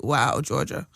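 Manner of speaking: Impression of a rapper. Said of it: "It's a good impression".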